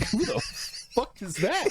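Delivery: mock alarmed question at an unseen voice; startled disbelief. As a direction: blurt it out like a stranger just spoke. Startled by voice in stream.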